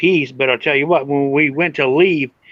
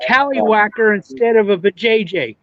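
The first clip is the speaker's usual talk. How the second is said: mock hurt child; 5 semitones higher than usual. Voicing the hurt little boy.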